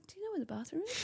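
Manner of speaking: high, sweet, innocent-sounding question; fake innocent. Woman about to ditch her date, asking sweetly and high. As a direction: play it sugary to hide the escape plan. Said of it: "And so I said".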